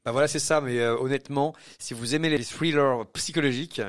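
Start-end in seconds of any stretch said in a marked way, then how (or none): 2.4-3.0 mot anglais prononcé avec l'accent; "thrillers" said with a playful English accent. Shown as a demonstration. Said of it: "je le dis avec l'accent". (« thrillers » avec l'accent anglais)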